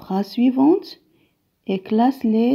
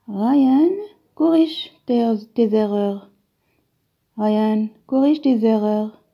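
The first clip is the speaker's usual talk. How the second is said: firm, louder command to a pupil; commanding order; 4 dB louder than usual. Shown as a demonstration. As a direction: give the order like you mean it. Alors, c'est un ordre ici. (ordre ferme, plus fort)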